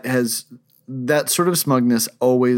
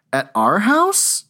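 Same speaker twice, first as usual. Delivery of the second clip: slow, higher, dazed sleep-talker voice; a light imitation of drowsy mumbled words; half-asleep husband, lightly imitated; sleep talking; 9 semitones higher, slower than usual. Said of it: "he did sleep talk in the morning".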